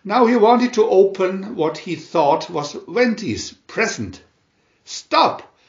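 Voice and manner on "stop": high, bright fairy cry of alarm; tiny tinkling fairy voice. Acted. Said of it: "tinkled the little fairy".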